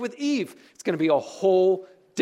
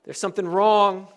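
raised voice, a touch of alarm; mild mock outcry; 4 dB louder than usual. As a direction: call it out firmly, short of a scream. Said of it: "it's as if it's screaming out".

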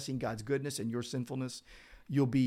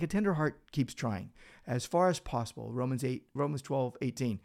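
ordinary talk, nothing marked

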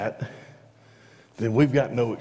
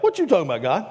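Arnold quote; 5 semitones higher, much faster than usual. Retold or imitated. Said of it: "if Arnold was talking to God".

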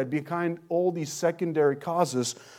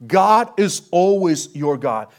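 louder emphatic repeat; 6 dB louder, slower than usual. Real, not acted. Repeats the line, now louder.

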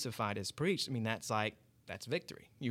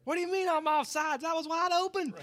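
much higher, put-on redneck whine; 5 dB louder than usual. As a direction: play an outraged redneck soccer player. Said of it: "like a bunch of rednecks playing soccer".

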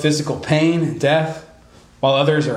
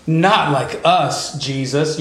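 mock outrage; much slower than usual. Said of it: "kind of a faux outrage".

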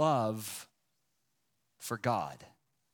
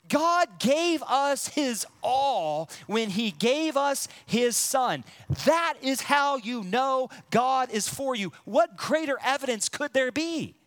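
rising preaching fervor; 5 semitones higher than usual. Real, not acted. Preacher proclaiming to the church that God is for them, fervent. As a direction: build to the climax with fervor. Climax of sermon point.

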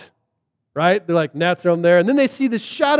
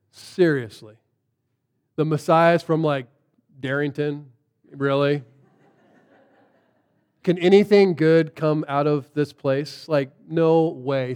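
low, soft, deadpan disbelief; skeptical; 6 semitones lower, 4 dB quieter than usual. Retold or imitated. Nathaniel hears Philip's news, skeptical and unimpressed. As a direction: pour cold water on it.

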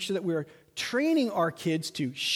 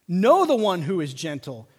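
louder insistent urging; emphatic Paul; 5 dB louder than usual. Retold or imitated. Preacher voicing Paul urging the church, louder. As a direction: press it home like Paul pleading. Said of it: "He's saying".

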